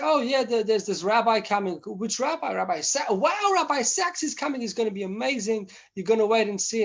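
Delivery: high, eager imitation of students gushing; excited students. Students telling the shlucha about Rabbi Sacks, excitedly. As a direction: gush like a thrilled student.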